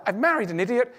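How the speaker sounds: imitating a partner near a meltdown; mock hysterical. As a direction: play the spouse losing it a bit. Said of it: "You're hysterical".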